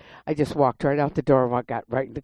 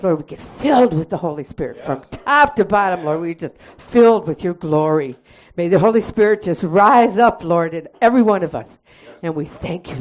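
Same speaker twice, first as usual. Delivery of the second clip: fervent church prayer, building louder; 4 dB louder than usual. Acted. Closing the church meeting with a thankful prayer to God, fervent. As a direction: lead the congregation in thanks.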